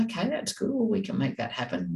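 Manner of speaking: high, gushing praise, too much; over the top enthusiasm. Shown as a demonstration. Parent gushing over a child's wish, overly enthusiastic. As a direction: pile on the enthusiasm so it feels like pressure. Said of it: "Not being over the top".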